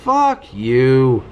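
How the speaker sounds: very high furious What then a curse; berserk rage. Real, not acted. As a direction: explode at the game. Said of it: "Yes, I'm mad".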